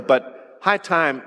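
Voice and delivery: high time stretched slow and weighted; stress on high time. Shown as a demonstration. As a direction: lean slowly on high time. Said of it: "why would you say it's high time".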